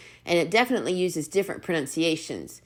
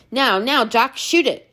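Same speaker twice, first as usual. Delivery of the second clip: a mildly raised Scottish call to shoot; 6 semitones higher, 3 dB louder than usual. Acted. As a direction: lift the voice a little, urging him on. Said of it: "lift his voice".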